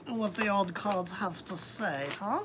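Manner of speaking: lightly put-on British accent; attempted British accent. Host opening a card reading, amateur British accent. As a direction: have a playful go at British. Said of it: "I wish I could do a British accent".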